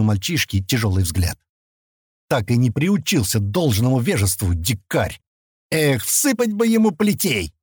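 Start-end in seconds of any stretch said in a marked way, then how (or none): 2.3-7.5 dreamy drawl. Acted. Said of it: "Мечтательно протянул он".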